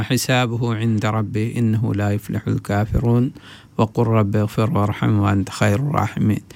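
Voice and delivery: rapid, even Quranic recitation; fast Arabic recitation of scripture. Acted. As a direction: recite the verses briskly in one flowing chant. Recites Quran verses before explaining.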